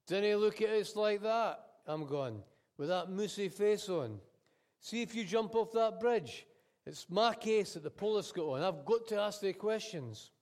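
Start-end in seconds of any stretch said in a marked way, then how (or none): 0.1-1.6 raised cabbie voice. Acted. Cabbie scolds passenger. 2.8-10.3 raised cabbie voice. Acted. Cabbie explains to passenger.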